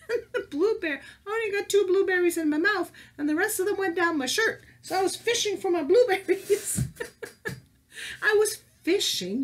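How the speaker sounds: high, loud, giggling retelling; laughing through it. Real, not acted. Teacher retelling the blueberry mishap to kids, laughing. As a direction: laugh while you tell it. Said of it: "and I was laughing".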